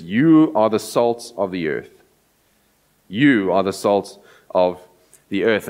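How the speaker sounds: each you pressed home; emphatic. Shown as a demonstration. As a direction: say it as a firm charge to the disciples. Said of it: "there's almost this kind of, like, emphatic sense".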